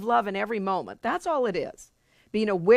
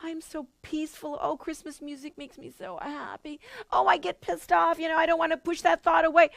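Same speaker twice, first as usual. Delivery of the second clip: mock serene; 6 semitones higher than usual. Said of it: "It's not about just going".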